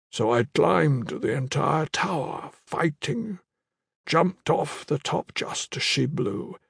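slow, weak, fading to whisper; dying warrior. Acted. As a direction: tell it with the last breath. Dying brother recounts, fading.

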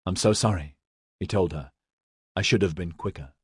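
low, subdued apology; sorrowful apology. A narrator's reading. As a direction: apologise gently to the dead, voice dropped. Apologising to a dead woman's soul.

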